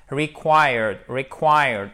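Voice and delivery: "Required" said firmly, stressed on QUIRED; bold pronunciation demo. Shown as a demonstration. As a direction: model "required" without shyness. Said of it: "vraiment oser". (« required » prononcé avec assurance)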